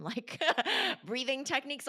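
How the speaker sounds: laugh, then push the words up high and loud; mock your own idea with a burst of laughter; laughing scoff. Laughing at what she'd teach.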